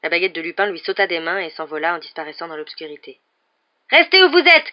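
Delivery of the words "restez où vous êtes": high, loud command to halt; forceful, high-pitched shout; shouted order. A narrator's reading. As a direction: yell to stop someone escaping. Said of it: "cria Harry".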